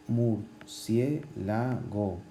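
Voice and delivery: murciélago very slowly, weight on cié; teacher stressing the cié of murciélago; slow demo word. Shown as a demonstration. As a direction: draw out murciélago, leaning on cié. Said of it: "el énfasis en cie".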